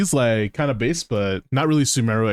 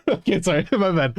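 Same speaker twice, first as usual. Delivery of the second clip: giggling through "okay, sorry, my bad"; laughing apology; 5 semitones higher than usual. Real, not acted. Streamer laughing as he apologizes to his friend, giggling.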